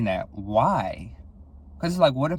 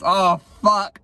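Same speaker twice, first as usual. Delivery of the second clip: higher, louder burst of dismay; acted dismay; 7 semitones higher, 6 dB louder than usual. Reacting to jumping to conclusions about a date, mock dismay. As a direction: exclaim it in mock horror at yourself. Acting out realizing her own mistake.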